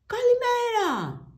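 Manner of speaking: slow, very high, loud bellowed greeting; grocer yelling. Acted. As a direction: bellow good morning across the shop. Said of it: "ούρλιαζε ο μπακάλης". (ο μπακάλης ουρλιάζει την καλημέρα)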